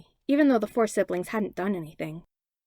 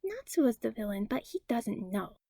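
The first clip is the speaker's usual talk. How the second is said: put-on a five-year-old plotting in a not-so-quiet whisper; loud kid whisper; 7 dB quieter than usual. A narrator's reading. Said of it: "whispering in a way only a five-year-old can think is quiet".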